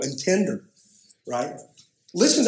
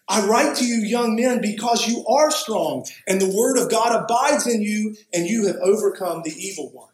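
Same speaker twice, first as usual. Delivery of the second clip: raised-pitch, measured reading aloud; emphatic scripture reading; 5 semitones higher than usual. Real, not acted. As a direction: proclaim the letter to the congregation. Reads the letter aloud emphatically.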